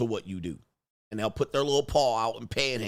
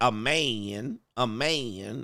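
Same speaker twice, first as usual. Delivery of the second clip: mocking, put-on lisping voice. Imitating the speaker in a clip being listened to: imitating a lispy voice. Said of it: "He sound kinda lispy".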